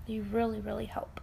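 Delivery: breathy whisper, dropping right down. Real, not acted. To viewers about self-care, a soft whisper. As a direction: whisper it like a small secret.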